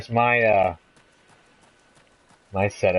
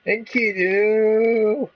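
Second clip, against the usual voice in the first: much higher, very slow, drawn-out yell; long calling cry; 14 semitones higher, 4 dB louder, much slower than usual. Acted. Gilgamesh crying out for Enkidu, drawn-out yell. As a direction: hurl the name across the sky.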